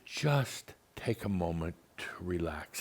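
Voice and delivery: calm her down gently; quiet calming; soothing. Retold or imitated. Soothing the upset caller.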